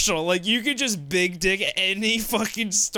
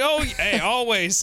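higher, eager-to-please mock answer; nervous store manager; 4 semitones higher than usual. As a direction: imitate an anxious manager agreeing too readily. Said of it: "store manager shaking in fear".

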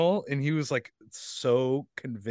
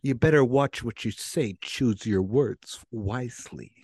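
deliberate Chicago interrogator voice; Chicago cop accent; 2 semitones lower than usual. Pretend. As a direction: warn a suspect in put-on Chicago talk. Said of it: "whenever we do cop stuff, it's natural just to go to Chicago".

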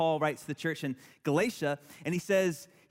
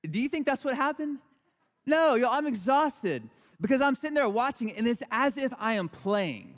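worked up; 5 semitones higher than usual. Real, not acted. Recounting volleyball tournament excitement.

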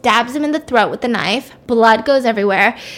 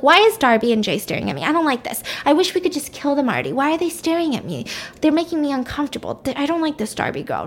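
higher-pitched, quick, acted fretting; mock-upset, complaints rushed out in a higher voice; 4 semitones higher, faster than usual. Baby brother rattled by two people staring at him, upset. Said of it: "he's getting really upset".

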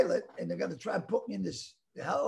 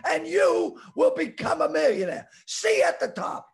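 louder, higher hard-sell shouting, building; hammed-up sales pitch; 7 semitones higher, 4 dB louder than usual. Recording a mock hiring promo for the podcast, hammed-up shouting. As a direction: pump up the salesmen like a sleazy motivational speaker. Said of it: "wanna help us with a promo".

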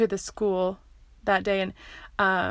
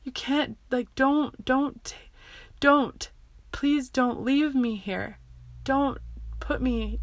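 higher-pitched imitation of a begging child; retold tearful pleading; 4 semitones higher than usual. Child begging mom not to leave her, retold tearful pleading. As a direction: act out a child's desperate plea, mildly tearful. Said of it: "I cried and I cried and I cried".

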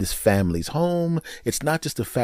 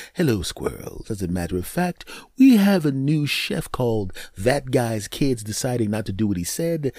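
maitre d'; 2 semitones lower than usual. Pretend. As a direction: present the garbage menu like a posh host. Maitre d' greeting the squirrels.

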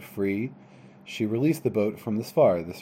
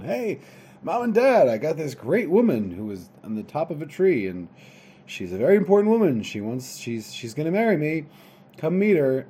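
lightly acted, eager higher-pitched announcement; excited son; 4 semitones higher, 4 dB louder than usual. Son telling Mom and Dad about his bride, excited. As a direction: call out proudly to the parents.

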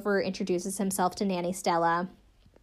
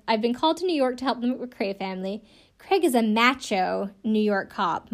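put-on British accent. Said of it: "I'll do a little bit of it probably".

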